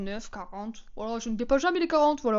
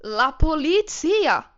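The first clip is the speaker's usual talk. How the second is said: mock Italian woman shouting, slow and much higher; shouting la polizia; 10 semitones higher, 11 dB louder, much slower than usual. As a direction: drag out la polizia in a frantic, rising yell. (imitation d'une Italienne qui hurle « la polizia », lente et de plus en plus aiguë)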